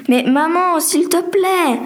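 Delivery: high, drawn-out plea; pleading. Acted. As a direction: beg mother, stretching the words out. Daughter pleads with her mother.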